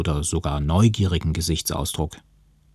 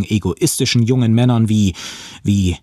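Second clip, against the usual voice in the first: grinsend; 5 semitones higher, 5 dB louder than usual. Acted. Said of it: "grinste ich".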